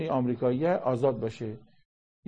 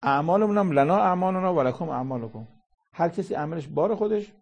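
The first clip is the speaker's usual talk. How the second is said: higher and louder, driving the verse home; forceful proclamation; 5 semitones higher, 5 dB louder than usual. Acted. Preacher telling the congregation each owns his deeds, loud.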